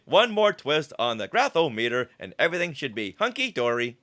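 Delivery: flat robotic bomb voice. Acted. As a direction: read it like a droid. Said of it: "sounded like this more robotically".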